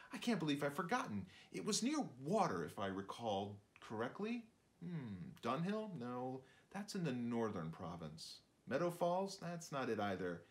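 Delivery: lightly voiced fussy shrew, searching memory; a hint of a forgetful little narrator; chatty shrew musing aloud, pausing to recall. Narrator shrew interrupts himself.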